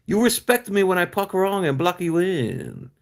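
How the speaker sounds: put-on Asian-accented English; mock Asian accent. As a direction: tease in an imitated Asian accent. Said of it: "isn't that an Asian accent?".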